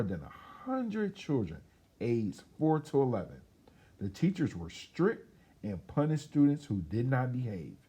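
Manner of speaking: put-on lively storybook reading for children; story narration. A narrator's reading. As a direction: tell it like a bedtime story to kids. Reads picture book aloud.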